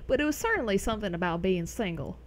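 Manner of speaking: put-on light, quick southern accent. Streamer musing about being single, in a light southern accent. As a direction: play at a southern twang. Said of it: "in a southern language".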